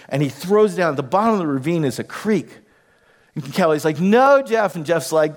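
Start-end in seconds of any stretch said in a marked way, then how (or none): 4.0-4.8 raised, scolding objection to a husband; mock wifely protest, pitched up; wife's protest. Wife objects in retold quarrel.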